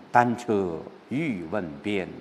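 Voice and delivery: 放慢的诗歌朗诵，带着孤独感; slow, restrained recitation with a lonely feeling; 郁闷孤寂地朗诵. Shown as a demonstration. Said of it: "有这样的一种感受". (郁闷、孤寂的朗诵)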